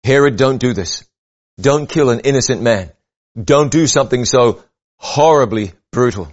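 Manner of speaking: firm, measured warning; firm, strong voice. Acted. Imagining God warning Herod against killing, firm and strong. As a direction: plead firmly, with restrained strength. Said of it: "in a firm and a strong voice".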